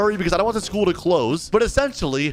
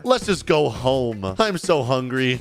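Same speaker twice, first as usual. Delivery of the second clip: put-on lower, slow, fed-up kid voice; glum kid; 6 semitones lower, slower than usual. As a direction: drag it out like a miserable kid. Son after bad day.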